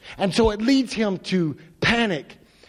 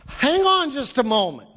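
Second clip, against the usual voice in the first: polite version; 4 semitones higher than usual. Shown as a demonstration. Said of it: "a bunch of ways we could say that".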